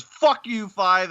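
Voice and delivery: high-pitched mock outburst; retold group shout. Recapper voices everyone cursing number five, mock shout. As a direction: call it out like an exasperated gang.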